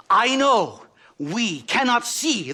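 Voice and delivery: slow, drawn-out, talking down to a guest; patronizing slow talk. Acted. Professor condescends slowly to the native guide. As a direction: speak as if to a child, in grand images. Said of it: "These savages must be spoken to simply in metaphors".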